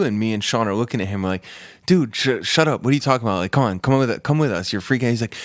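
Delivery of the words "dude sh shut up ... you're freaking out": raised, urgent brush-off of a friend; exasperated dismissal. Retold or imitated. Friends telling the kid to come along, exasperated. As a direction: imitate impatient friends, pitched higher.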